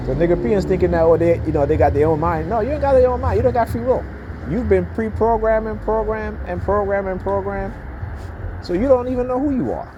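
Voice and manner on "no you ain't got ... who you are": rising, higher-pitched heated rant; escalating comedy rant. Real, not acted. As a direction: climb up in pitch as you push the point.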